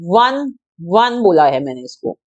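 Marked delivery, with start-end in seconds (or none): 0.1-1.2 "वन" said "wun", starting on a W sound; one said as wun. Shown as a demonstration. Teacher showing students how "one" is said, "वन" as "wun". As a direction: model "वन" slowly as "wun", not "on". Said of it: "अब मैं इसको कैसे बोल रही हूँ?".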